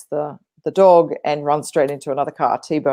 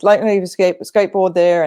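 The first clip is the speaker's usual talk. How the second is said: higher-pitched retold scolding; mock yelling; 4 semitones higher, 4 dB louder than usual. Mother telling off her kid over the skateboard, mock yelling. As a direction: imitate a mother yelling, only partly raised. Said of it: "she's yelling at the".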